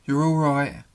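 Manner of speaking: a hint of a gentle woman reassuring. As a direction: comfort him like a nurse at the bedside. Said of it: "this voice was saying".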